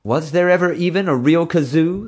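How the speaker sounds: high, loud challenge; demanding. A narrator's reading. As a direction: demand answers, suspicious. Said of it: "the groom demanded".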